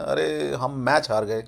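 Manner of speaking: understated letdown, trailing down; a mild sigh-like "oh no" tone; slightly disappointed. Shown as a demonstration. Teacher showing the Hindi tone, mildly disappointed. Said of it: "थोड़ा सा निराशाजनक style में".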